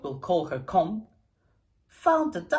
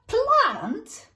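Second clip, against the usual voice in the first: high, loud shocked squawk; loud shocked rising plant?; horrified yell; 14 semitones higher, 7 dB louder than usual. A narrator's reading. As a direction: shriek it in disbelief. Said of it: "yelled Mum in horror".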